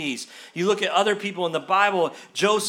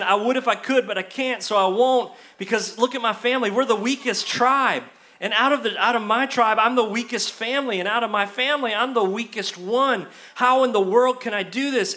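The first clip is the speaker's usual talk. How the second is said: whiny excuses; 3 semitones higher, 3 dB louder than usual. Acted. Gideon's excuses, complaining.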